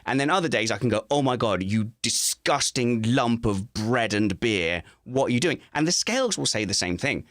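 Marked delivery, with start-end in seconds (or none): 1.1-5.6 self-disgust. Acted. Disgusted at himself in mirror.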